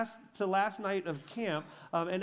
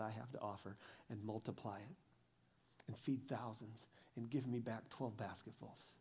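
soft reflective preaching; 6 semitones lower, 10 dB quieter than usual. Acted. Pastor closing the message to the congregation, hushed and tender. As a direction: draw them in, almost hushed.

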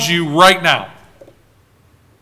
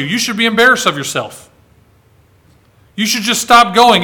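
Satan's accusing voice; faster than usual. Acted. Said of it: "Satan tells them".

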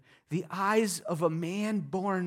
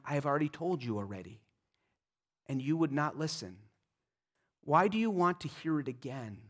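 softer, fast, offhand sarcastic reply; dry sarcasm; 2 semitones lower, 5 dB quieter, faster than usual. Acted. Healed man brushing off the Pharisees, soft and fast. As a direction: toss it off under your breath. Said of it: "See the sarcasm, the irony".

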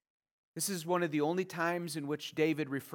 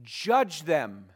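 louder, urgent cries to God; a psalmist begging God to judge his enemies; pleading prayer voiced for David; 2 semitones higher, 5 dB louder than usual. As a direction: cry out to God for justice. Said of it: "He says".

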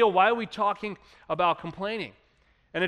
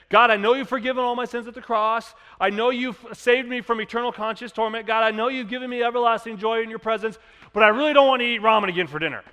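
higher, louder grumbling prayer, rushing at the end; mock whiny prayer; 5 semitones higher, 5 dB louder than usual. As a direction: complain to God, pitched up. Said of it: "We say".

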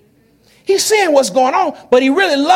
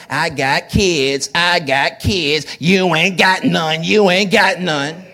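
mocking taunt; 6 semitones lower, slower than usual. Rival taunting Hannah, mock boast.

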